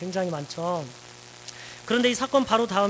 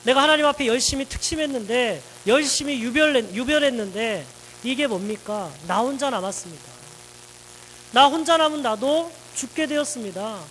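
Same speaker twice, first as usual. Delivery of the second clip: raised, louder, higher aggrieved protest; complaining to God; 3 semitones higher, 3 dB louder than usual. Acted. Elijah complaining bitterly to God, raised and aggrieved. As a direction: pour out the grievance, pushing harder each line. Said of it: "하나님 앞에 원망을 퍼붓게 되죠".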